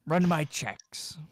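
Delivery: stage whisper. Acted. Mortician whispers loudly.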